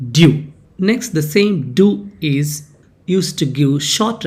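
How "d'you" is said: "Do" as a contracted "do you", one firm syllable; pronunciation demo. Shown as a demonstration. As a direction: say "Do" like "dew", loud and clear. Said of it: "Do you is pronounced as do".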